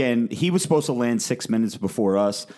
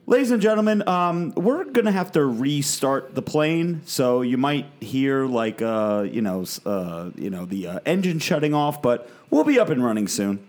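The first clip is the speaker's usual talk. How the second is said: airline captain announcing; 4 semitones higher than usual. Retold or imitated. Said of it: "the captain comes on the mic".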